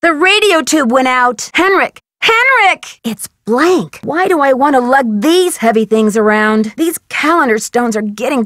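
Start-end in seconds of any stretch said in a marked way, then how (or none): 1.5-3.0 higher urgent call, rising on the repeat. Acted. Calling to Henrik for an answer, urgent call. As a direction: call out in growing alarm.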